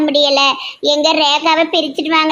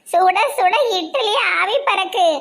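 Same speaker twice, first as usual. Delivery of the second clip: fake wailing mother-in-law; 3 semitones higher than usual. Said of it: "நீங்க ரொம்ப நடிக்காதீங்க".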